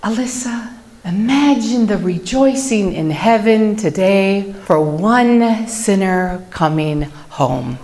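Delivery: lightly imitated breathy bishop, slow; a hint of the bishop's gentle breathy voice; beautiful breathy voice. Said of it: "breathy voice of his".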